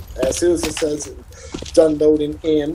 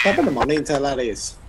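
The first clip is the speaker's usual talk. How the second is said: milder Irish accent; 3 semitones higher, 4 dB quieter than usual. Shown as a demonstration. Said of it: "No, it's like".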